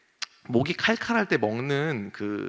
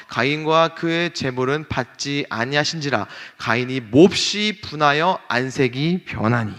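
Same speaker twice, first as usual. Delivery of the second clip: measured Bible reading, slowing at the end; scripture reading; 3 dB louder than usual. Acted. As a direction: read the verse with weight. Reads scripture aloud. (성경 봉독하듯)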